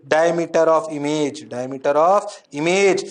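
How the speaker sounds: slow, word by word for notes; slow dictation. Shown as a demonstration. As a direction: spell it out slowly for the class. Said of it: "तो सोचो". (धीरे-धीरे लिखवाते हुए)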